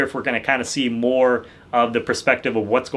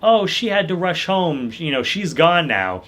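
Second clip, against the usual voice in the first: lie sweetly with a sinister edge; mock-sinister slow brush-off; 5 semitones higher than usual. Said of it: "really, like, sinister".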